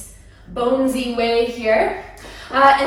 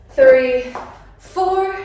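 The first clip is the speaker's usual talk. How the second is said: shouted count; 11 semitones higher, 6 dB louder than usual. Real, not acted. Calling out the dance count.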